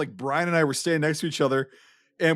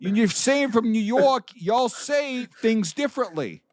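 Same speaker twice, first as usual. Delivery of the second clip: exasperated; 7 semitones higher than usual. Real, not acted. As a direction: spell out the mistake in disbelief. Exasperated at friend missing the joke.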